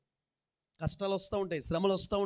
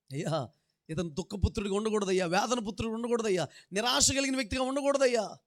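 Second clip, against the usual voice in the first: a pleading prayer that climbs higher and louder; anguished prayer cry; 4 semitones higher, 4 dB louder than usual. Retold or imitated. Jacob grieving his wife, crying out to God, rising plea. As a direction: build from a plea to a crying appeal. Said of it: "అని ఆ ఆక్రందనలో".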